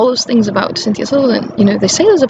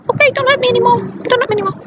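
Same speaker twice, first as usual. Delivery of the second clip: much higher, whimpering plea; mock pleading; 13 semitones higher, much faster than usual. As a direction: beg like a cowering puppy. Victim rolled over like puppy.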